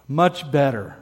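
low, settled mock relief; relieved. Preacher voicing listeners eased by the definition, relieved. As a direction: drop the pitch as if eased. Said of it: "All of a sudden you can go".

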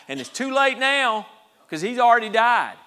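high, loud protest; acted despairing complaint; exasperated lament. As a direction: cry out that all hope is gone. Acting out the sisters' despairing complaint.

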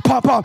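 loud, pounding double thump; forceful pum-pum pulse; imitated heartbeat. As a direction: punch out two heartbeats. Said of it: "hear that heartbeat".

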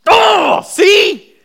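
hammed-up shouting show-off; mocking gloat shout. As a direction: crow over someone's mistake. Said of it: "standing next to somebody and going".

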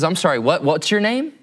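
mildly affronted, as if disbelieving the answer; a little upset. Retold or imitated. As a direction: pitch jumps up on the repeated question. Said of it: "gets a little upset".

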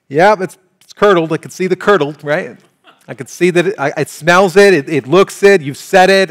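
disgusted convinced taster. Retold or imitated. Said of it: "you'd be like".

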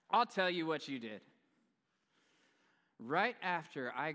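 loud, high sassy scolding; sassy wife. Retold or imitated. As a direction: scold like a wife over the counters. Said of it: "I'm adding sass for comedic effect".

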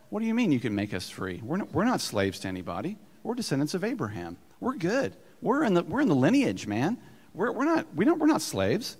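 mock indignant Jews. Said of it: "They looked at Jesus and said".

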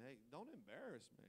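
a shy churchgoer begging not to be singled out; mock embarrassed plea. Churchgoer pleading quietly not to be embarrassed.

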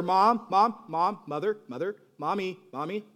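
put-on loud start, then a child's whining calls; a kid calling mom on repeat, winding down; pestering child.

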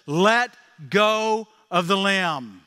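slow, steady command from above; voice of God. Retold or imitated. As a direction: say it slowly and evenly as God. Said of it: "And God says".

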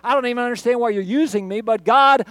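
a disciple vowing obedience, loud and earnest; Ananias answering God. Acted. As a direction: commit to the Lord with rising urgency.

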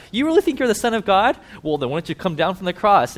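mocking crowd jeering at the dying man. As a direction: taunt him with scorn. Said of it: "mocked Jesus while he's dying".

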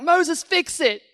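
high, slow, whining plea; whiny demand. Retold or imitated. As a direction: nag like a spoiled crowd. Israelites demanding Moses fix things.

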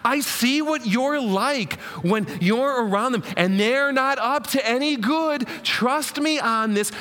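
lightly voiced mother warning about friends; a touch of an anxious mother; worried mom. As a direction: nag and plead like a mom. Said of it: "how he moms them".

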